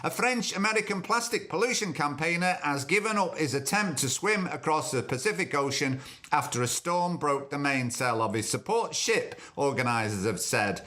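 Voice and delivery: reading the news item. Shown as a demonstration. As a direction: read it like a news bulletin. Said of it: "I'll just point and say this news".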